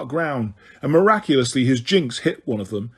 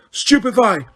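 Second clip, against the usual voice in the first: yelled spell; 6 semitones higher than usual. A narrator's reading. Harry chasing Snape across the grounds, yelling the stun spell. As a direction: spell yelled high at a fleeing back. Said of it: "took aim at Snape's back and yelled".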